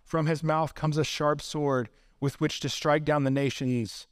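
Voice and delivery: measured, weighty recitation; solemn scripture reading. Real, not acted. Preacher reads Revelation's rider on the white horse, solemnly. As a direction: recite the prophecy gravely, line by line.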